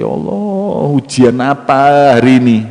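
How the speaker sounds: high, drawn-out wail to God; hammed-up tearful complaint; mock crying. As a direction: lament like a comic weeper. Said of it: "dia nangis".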